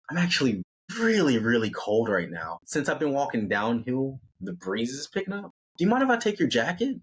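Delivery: lightly put-on sweet asking, pitch climbing; lightly voiced Amy. Amy's acted request in retelling.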